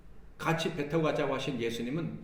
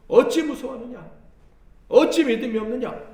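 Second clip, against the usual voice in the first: higher, louder rebuke with 어찌 punched; sharp rebuke; 8 semitones higher, 9 dB louder than usual. Retold or imitated. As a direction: scold hard, hitting 어찌. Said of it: "주님이 뭐라고 책망하셨어요?".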